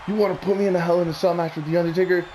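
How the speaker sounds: brisk, lightly imitated Edge line; a quick first run at mimicking the heel; quoted heel promo. Fan quoting Edge's old heel promo, lightly imitated.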